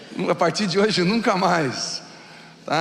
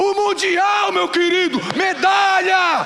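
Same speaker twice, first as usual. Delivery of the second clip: excited shout; 11 semitones higher, slower than usual. Retold or imitated. Pastor acts out excited brother.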